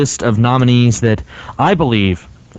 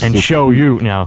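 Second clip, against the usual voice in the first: creepy seductive voice; 2 semitones lower than usual. Pretend. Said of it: "Yeah, stop right there".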